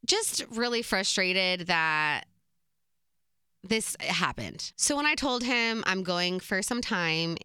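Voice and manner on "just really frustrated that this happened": hurt and frustrated. Real, not acted. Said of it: "I've been so nervous to talk about this".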